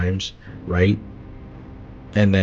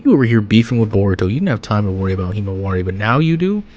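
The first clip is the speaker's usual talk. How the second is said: exasperated; faster than usual. Retold or imitated. Reacting to Kawaki, exasperated.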